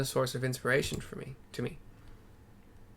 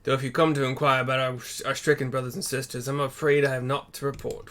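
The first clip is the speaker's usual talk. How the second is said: slightly louder, unintended British character voice; British accent; 5 dB louder than usual. Acted. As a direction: read the character with a British lilt. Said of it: "Fuck, he's still British".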